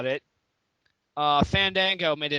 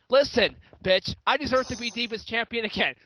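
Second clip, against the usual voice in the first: mock pleading; 5 semitones higher than usual. Drunk champion hopeful begging the boss by voicemail, mock pleading. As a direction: imitate a demanding caller pleading hard.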